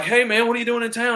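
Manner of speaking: high-pitched, lightly imitated South African accent. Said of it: "he talked with a South African accent".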